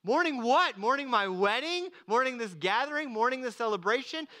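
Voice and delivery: mock disbelief at mourning at a party; incredulous. Real, not acted. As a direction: ask in disbelief. Incredulous preacher questions.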